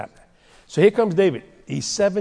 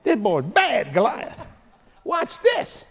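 worried king Saul; 5 semitones higher than usual. Acted. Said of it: "Saul said".

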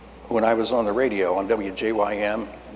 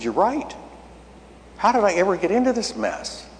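higher-pitched, mildly distressed self-reproach; mild retold dismay; 9 semitones higher than usual. Preacher retells his reply to the voice, mildly dismayed. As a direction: retell a moment of realizing you're in trouble.

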